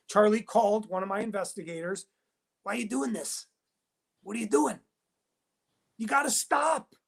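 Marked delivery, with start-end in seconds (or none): 2.6-7.0 mock pleading, rising on the last plea; a mild mock whine of distress; imitating crying. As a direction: imitate someone tearfully begging. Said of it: "He's, like, crying".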